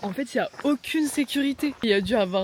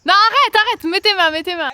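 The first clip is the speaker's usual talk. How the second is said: alarmed shout; 7 semitones higher, 8 dB louder than usual. Real, not acted. Friend scared for climber.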